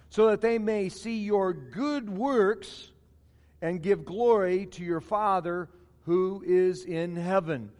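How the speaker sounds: measured, solemn Bible reading to the congregation; scripture reading. Acted. Reads scripture aloud.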